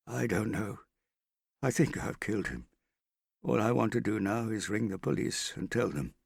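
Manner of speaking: a man who thinks he killed someone, lightly voiced; shaken Wade. Wade confessing to Marriott, lightly voiced and shaken.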